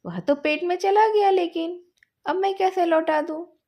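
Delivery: how can you even ask that; exasperated protest. Acted. Boys quarrel over the guava.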